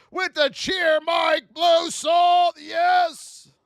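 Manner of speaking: high, loud, slow announcer shout; cheering shout. Real, not acted. Streamer shouting thanks to a viewer, slow and loud. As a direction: boom the name out to the crowd.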